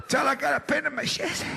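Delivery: high, pushed urgent plea. Retold or imitated. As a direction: beg the kid to hurry. Uncle urging kid.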